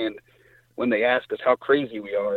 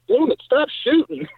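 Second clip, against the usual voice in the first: mock frustrated brother; 5 dB louder than usual. Brother jokingly complains about kills.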